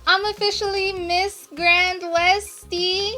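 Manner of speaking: gushing with delight; excited. Real, not acted. Gushing to viewers as she puts on the crown, excited.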